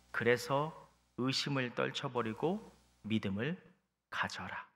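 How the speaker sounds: calm, tender instruction trailing to a hush; gentle Jesus. Acted. Jesus speaking to doubting Thomas, acted gently.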